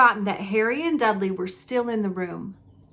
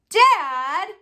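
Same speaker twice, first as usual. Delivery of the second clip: calling out; 7 semitones higher, 6 dB louder than usual. Acted. Dudley calling his father.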